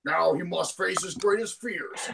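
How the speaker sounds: lightly voiced anime recap narrator; Kyle Ebert. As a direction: recap it like a cartoon announcer. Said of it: "That's my Kyle Ebert impression".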